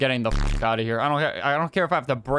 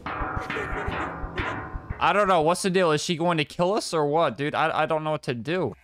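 scared whine; 4 semitones higher than usual. Real, not acted. Streamer panicking.

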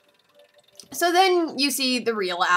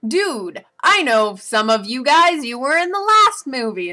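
loose paraphrase; 5 semitones higher, 7 dB louder than usual. Retold or imitated. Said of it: "she's like".

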